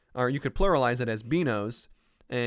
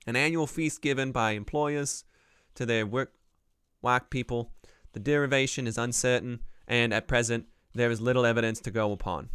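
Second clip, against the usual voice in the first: a rough, wandering Boston accent read a bit louder; attempted Boston accent; 4 dB louder than usual. Shown as a demonstration. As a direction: read the dictionary entry in a shaky try at a Boston accent, JFK-style. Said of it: "at reading some of these in a Boston accent".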